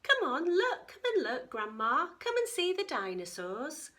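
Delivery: eager, high and loud; excited child calling. Acted. Katie calling grandma to see dinosaurs, excited. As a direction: tug grandma along excitedly.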